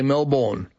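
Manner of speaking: MELBOURNE with a full second syllable, Mel-born; over-pronounced Melbourne, Mel-BORN; Melbourne mispronounced. Retold or imitated. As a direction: say Melbourne as spelt, rhyming the end with born. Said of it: "Even interstate journalists often say".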